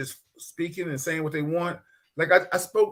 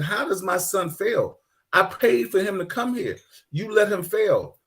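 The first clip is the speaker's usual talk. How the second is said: imitating angry father; 4 semitones higher, slower than usual. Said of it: "He said".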